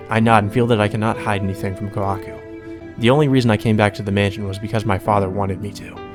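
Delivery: low-key, even reading of a visual novel; composed first-person narration; story narration. Acted. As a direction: read it out evenly and restrained. Reads game narration and heroine's lines.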